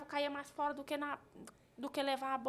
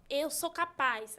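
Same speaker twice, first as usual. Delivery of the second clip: slow, louder, proud declaration; chest-thumping affirmation; 6 dB louder, much slower than usual. Retold or imitated. Mother coaching her son to stand up for himself, slow and firm. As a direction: say it like beating your chest. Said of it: "bata no peito, fala".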